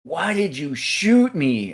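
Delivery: a hint of a hurt little boy asking; slow, hushed kid voice; wounded kid. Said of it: "He goes like this".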